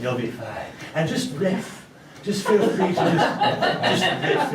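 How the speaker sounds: usual speaking voice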